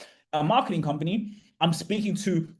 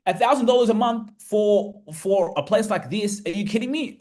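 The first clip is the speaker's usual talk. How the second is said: higher pitch, disbelieving rise on me; incredulous excitement; 5 semitones higher than usual. Real, not acted. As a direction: marvel at the price to the audience. Marvelling at the rent price.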